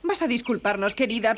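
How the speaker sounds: ordinary delivery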